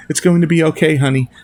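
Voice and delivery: pleading. Acted. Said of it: "I say in a pleading tone".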